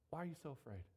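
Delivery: low, soft voice of Jesus; quiet question. Acted. Jesus to the disciples after the storm, quietly.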